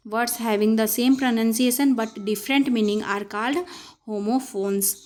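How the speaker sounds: each word spaced out, very slow; slow definition reading. Shown as a demonstration. Teacher dictating the definition of homophones, very slow. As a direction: read the definition at dictation speed. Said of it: "teacher reads definition".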